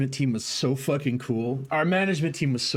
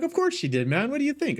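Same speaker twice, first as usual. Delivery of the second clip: exasperated retort; 13 semitones higher, faster than usual. Retold or imitated. Answering the manager, exasperated.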